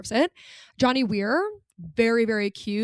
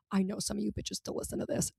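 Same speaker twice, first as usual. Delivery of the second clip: hushed aside; 11 dB quieter, faster than usual. Real, not acted. Secret aside to listeners.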